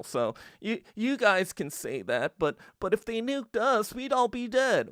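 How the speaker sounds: meek mumbling excuse, mocked; timid mock plea. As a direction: shrink back like a scared small country. Timid Czechoslovakia voiced in rant.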